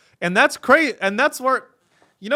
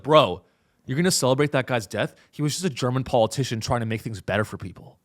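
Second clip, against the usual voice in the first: lower, quick mock-bro defence; imitated apologist; 5 semitones lower, faster than usual. Bro defending a politician to a critic, imitated apologist. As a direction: imitate an incredulous bro, dropping the pitch. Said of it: "They'll be like".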